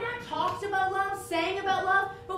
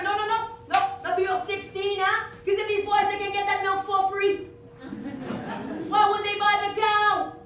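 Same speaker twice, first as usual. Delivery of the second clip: strict father; 2 semitones higher, 4 dB louder than usual. Retold or imitated. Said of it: "He was like".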